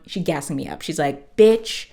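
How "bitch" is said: hype. Retold or imitated. Friend hyping her up.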